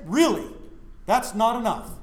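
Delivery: loud, incredulous comeback; retold indignant challenge. Young man disputing that his faith is not enough, indignant. Retold argument with girlfriend's family.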